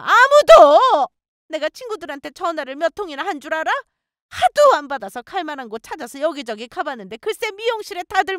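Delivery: angry scolding. A narrator's reading. Mother-in-law accuses her of gossiping, raging. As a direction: rant at a high pitch, erupting on key words. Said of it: "저에게 소리를 지르면서 욕을 하시더라고요".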